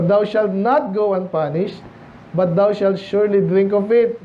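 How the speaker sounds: slow, deliberate Bible reading; scripture reading. Acted. Preacher reading verse to the congregation, slow and solemn. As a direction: read the verse slowly and solemnly.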